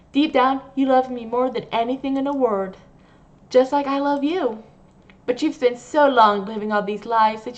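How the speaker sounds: a hint of a sugary, possessive caretaker; obsessive nurse. Obsessive nurse voiced at length.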